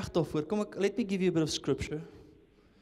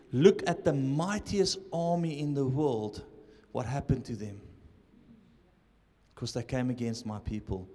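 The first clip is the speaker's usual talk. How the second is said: voice of the Lord; 4 semitones lower than usual. Retold or imitated. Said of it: "I heard the Lord said".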